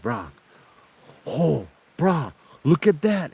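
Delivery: retold alarm, pitch leaping up on each cry; freaking out. Boyfriend shows the guide his girlfriend's face, freaking out. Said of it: "small kind freaking out".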